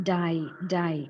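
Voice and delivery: first syllable said as "die"; wrong diphthong. Shown as a demonstration. Teacher isolating the error in divorce, a diphthong "die". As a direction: isolate the gliding vowel in die. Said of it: "it shouldn't be pronounced with a diphthong".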